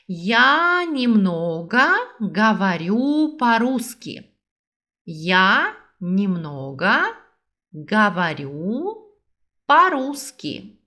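slow, clear syllables; slow model repeat. Shown as a demonstration. Teacher repeats the sentence slowly for learners to copy. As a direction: say it slowly so they can follow. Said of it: "Vamos lá de novo".

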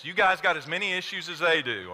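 ordinary delivery

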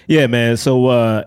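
relaxed, low natural phone voice. Shown as a demonstration. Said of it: "that's just how my voice naturally sounds".

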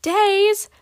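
loud, high shout of dismay; high startled outburst; shouted disbelief. A narrator's reading. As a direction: cry out in shocked disbelief. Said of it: "Magma shouted".

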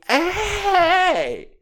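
high mocking voice, laughing; squeaky mock-friendly tone; hammed-up impression of himself; mocking quote. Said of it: "And I'm like".

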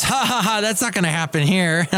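high, scoffing "ha, ha, ha" then smug dismissal; mocking laugh. Alabama laughing off California's lockdown, high and smug. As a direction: scoff like a state that thinks it's safe. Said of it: "Alabama ... goes".

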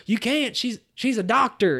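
high, loud improvised protest; acted panicky objection; mock frantic excuse. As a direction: stammer out a cover story. Acts frantic excuse to cop.

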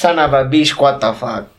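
mimicked broken-English Latino curse; Latino accent. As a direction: swear with a thick Latino accent, imitating. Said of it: "that broken English".

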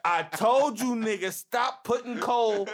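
slow exasperated outcry; wailing in mock despair; angry crying. Real, not acted. Complains about a rapper's features.

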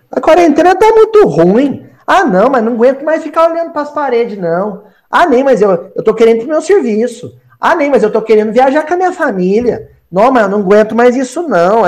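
high, quick whining grumble; hammed-up impatient moaning; mock complaining. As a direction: whinge like someone fed up with lockdown. Acted complaining about quarantine.

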